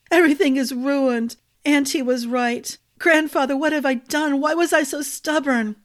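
high, tearful despair; sobbing. A narrator's reading. Arden weeping on the old man's shoulder, high and tearful. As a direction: sob out the regret. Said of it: "sobbed into Ambrose's shoulder".

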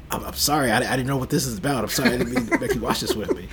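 sorry, apologising through a laugh; apologising to his girlfriend for the movie, sheepish and laughing; laughing apology. Retold or imitated. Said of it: "looking at my girlfriend like".

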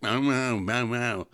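imitated barking dog; dog with harelip. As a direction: yelp out nasal "meow" barks. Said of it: "And the dog's like".

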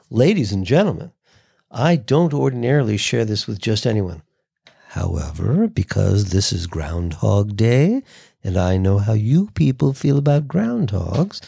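a mock announcement, intimate on the mic; lightly voiced announcer making a silly announcement. Shown as a demonstration. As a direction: close to the mic, playful announcer. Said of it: "you can hear in my voice as I'm making up this announcement".

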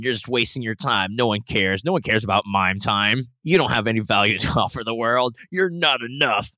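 the mocking voice in your head tearing you down; a jeering self-doubt voice, partly laughing; scornful inner critic. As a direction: berate yourself like a sneering inner critic. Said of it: "two voices in my head".

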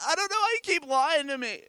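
high mock woman's voice; Delilah. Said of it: "This is Delilah's voice".

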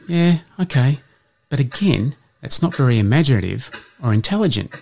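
high, prissy poodle brushing him off. Acted. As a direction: lift the pitch for the dismissive female poodle. Poodle rejects the Boxer.

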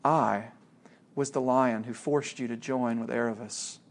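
a lightly voiced Aslan, soft and sure; large voice. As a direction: Aslan telling the boy he was always there, hushed. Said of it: "the voice continued".

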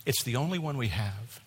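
softened, confidential stewardess line; retold whisper. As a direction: lean in and quietly warn, voice still audible. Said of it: "whispers in your ear".

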